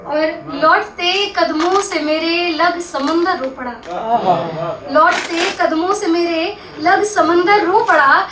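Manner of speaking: measured ghazal recital, line by line; mushaira-style verse reading; poetry recitation. Acted. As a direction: recite the couplet with lingering line endings.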